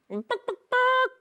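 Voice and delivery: high rising hen clucks; hen clucking. Acted. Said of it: "said the hens".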